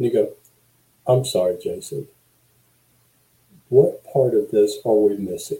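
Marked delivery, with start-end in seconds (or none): 1.1-5.6 soft, lowered tone with each syllable spaced apart. Showing how to pull attention back in a conversation, lower tone, separated syllables. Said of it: "you start separating syllables and you lower that tone".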